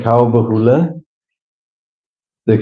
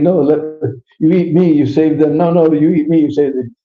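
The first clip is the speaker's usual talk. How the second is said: eager pleading; 4 semitones higher than usual. Acted. All beg lion to eat them.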